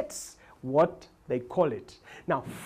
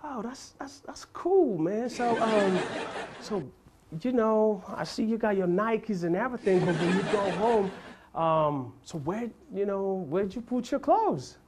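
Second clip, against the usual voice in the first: clueless American; 3 semitones higher, 4 dB quieter, slower than usual. Retold or imitated. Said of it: "they'll be like".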